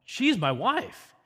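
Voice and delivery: "She's my wife" slowed, with the weight on "my wife"; stress on MY WIFE. Shown as a demonstration. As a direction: press hard on "my wife", drawn out. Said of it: "He's putting the emphasis on".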